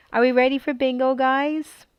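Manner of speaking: quick, bright call to the room; fast excited call. Real, not acted. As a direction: rattle it off eagerly. Starting a bingo game.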